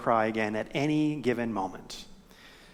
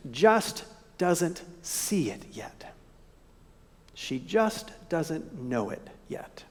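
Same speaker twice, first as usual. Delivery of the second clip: hushed whisper; 7 dB quieter, slower than usual. Acted. Preacher whispers to the congregation about Mary, hushed and slow. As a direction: drop to a soft breathy whisper, slow.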